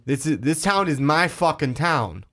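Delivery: mock mob boss shouting; tough thug yell. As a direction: bark it like a street thug. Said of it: "yelled on that one".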